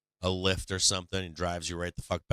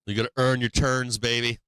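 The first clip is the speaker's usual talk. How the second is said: mocking bikers; 3 semitones higher, 5 dB louder than usual. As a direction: parrot the smug mountain biker. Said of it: "mountain bikers huffing and puffing".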